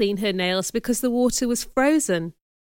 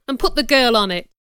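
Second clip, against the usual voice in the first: firm, raised-voice command; stern order; 4 dB louder, faster than usual. Acted. Man ordering a girl onto the stool, stern. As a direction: finish the order firmly. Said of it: "ordered Mister Brocklehurst".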